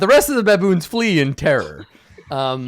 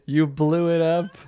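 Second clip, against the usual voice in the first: slow, drawn-out dramatic outburst; theatrical despair, swelling to a wail; hammed-up anguished curse; 5 semitones higher, 4 dB louder, slower than usual. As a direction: build from lament to a high, loud cry. Acted outburst at fallen apes.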